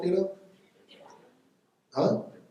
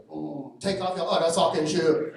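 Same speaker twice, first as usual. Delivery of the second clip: higher, louder clipped salon boss in a mock Asian accent; 4 semitones higher, 6 dB louder than usual. Salon boss greeting the tall customer, mock Asian accent.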